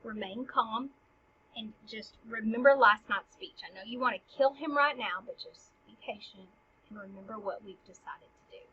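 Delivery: calming. Acted. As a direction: talk someone down gently. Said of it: "calm down".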